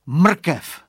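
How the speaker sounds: high, loud cry with falling end; acted exclamation. A narrator's reading. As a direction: call out a sudden bright idea.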